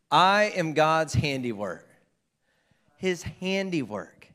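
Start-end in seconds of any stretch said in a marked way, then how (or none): 0.1-1.9 loud, emphatic declaration on I; with conviction. Shown as a demonstration. Preacher leading the congregation to repeat it, with conviction. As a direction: say it louder, like you believe it. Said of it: "like you believe it".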